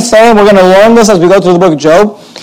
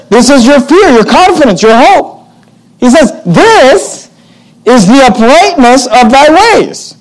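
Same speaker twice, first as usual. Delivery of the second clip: mocking, higher, with a hard drop on "This"; sneering, higher accusation; sarcastic; 3 semitones higher than usual. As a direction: throw the words back at Job with scorn. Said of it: "he's being sarcastic here".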